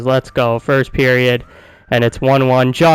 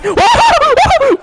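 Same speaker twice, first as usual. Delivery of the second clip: very high delighted laugh; burst of laughter; 3 dB louder than usual. Real, not acted. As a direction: explode into a laugh. Fourth goal on four shots.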